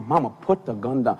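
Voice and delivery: low, careful plea; talking her down. Retold or imitated. Daddy to armed mama, talking her down.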